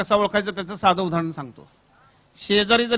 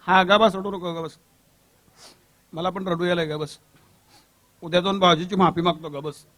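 soothing. Acted. Brother soothes crying sister.

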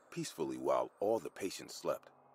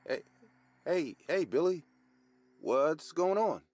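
loud, high call down a corridor; 10 semitones higher, 6 dB louder, slower than usual. A narrator's reading. Cleaner spots Billy at the corridor's end, high loud call. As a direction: call out high and loud, stretching the final question.

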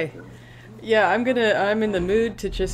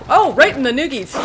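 sympathetic outcry; 5 semitones higher, 8 dB louder than usual. Real, not acted. Reacting to a low blow.

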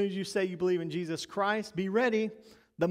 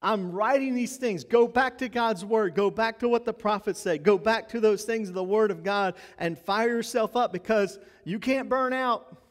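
loud, rousing, higher-pitched charge to the team; fired-up exhortation; 4 semitones higher, 5 dB louder than usual. Retold or imitated. Peter rousing his people like a coach in their face, loud and fiery. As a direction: grab them by the jersey and fire them up. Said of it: "and he's saying".

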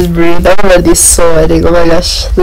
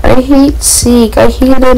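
whiny; 6 semitones higher than usual. Real, not acted. Dreading the next monster.

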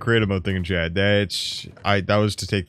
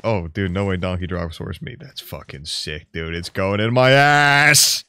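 ordinary delivery

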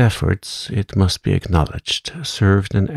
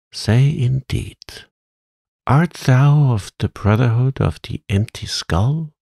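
higher-pitched mock indignation; scornful scolding; 5 semitones higher than usual. A narrator's reading. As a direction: chide a brainless pupil, pitched up. Witch scolds her scarecrow, mocking question.

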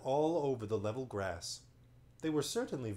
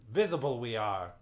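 chief monopod; 5 dB louder than usual. Acted. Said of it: "said one in a tasseled red cap".

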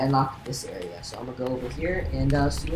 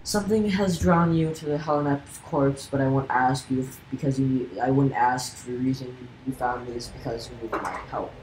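sinister witch voice. Acted. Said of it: "I need to give this voice".

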